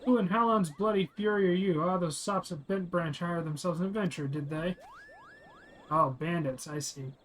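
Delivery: lightly voiced villain, scornful then commanding; blustering bandit leader. Streamer voicing the bandit boss ordering his men, scornful. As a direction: sneer at the hired adventurer, then order the kill.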